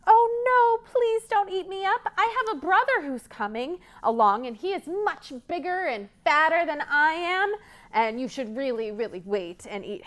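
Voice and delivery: high, frightened begging; little goat begging for its life; pleading little goat. Acted. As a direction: beg the troll to wait.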